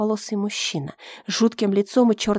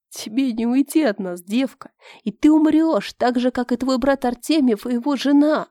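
menacing villain; 4 semitones higher than usual. Acted. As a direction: gloat over the captive girl. Villain threatens the girl.

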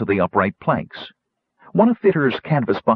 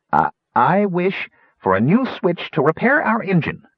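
loud; 8 semitones higher than usual. A narrator's reading. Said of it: "Rainspot said loudly".

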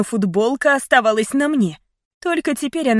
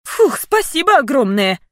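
irritated thanks; 5 semitones higher, 4 dB louder than usual. Acted. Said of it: "не без раздражения сказала я".

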